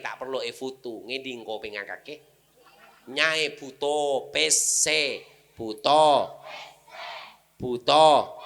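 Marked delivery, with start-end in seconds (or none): 3.1-8.4 loud, slow calling out; loud hammed-up calling; mock shout. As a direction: bellow it like mocking. Mocking grandmother who can't see.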